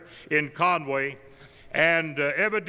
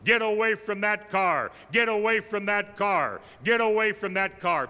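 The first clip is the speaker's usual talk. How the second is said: mild mock holler, a bit higher; calling out a warning, lightly acted; retold holler; 3 semitones higher than usual. Jim Green hollering at men by his car, mild mock holler. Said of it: "opened the door and hollered".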